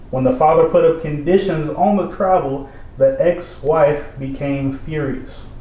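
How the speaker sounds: article read. Acted. Reading an article aloud.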